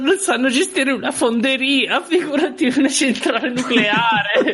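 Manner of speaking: high, slow, laughing mock skeptic. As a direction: imitate a scoffing objector. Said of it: "E allora uno arriva e dice". (scettico che deride)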